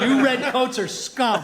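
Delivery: put-on convincing American accent. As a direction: insult them in an American accent. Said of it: "a convincing American accent".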